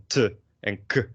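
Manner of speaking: isolated plosive consonants; short demonstrated plosive sounds. Shown as a demonstration. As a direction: pop out T and K as bare sounds. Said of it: "plosives are things like p".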